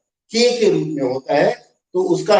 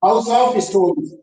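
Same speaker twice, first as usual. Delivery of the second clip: "House of stones" drawn out word by word, very slowly; slow teacher dictation; much slower than usual. Shown as a demonstration. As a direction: dictate it so the class can write it down. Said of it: "क्या लिखेंगे?".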